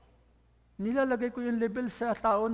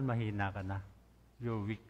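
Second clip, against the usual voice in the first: much lower and softer, worn out by day's end; weak, drained voice; 11 semitones lower, 7 dB quieter than usual. Shown as a demonstration. Pastor acts out being drained after work, low and soft. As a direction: let the voice sag like you've no power left.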